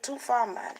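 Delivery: "Too far, man" с лёгким ямайским акцентом; a light Jamaican lilt on "Too far, man"; Jamaican accent. Shown as a demonstration. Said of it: "in Jamaican accent".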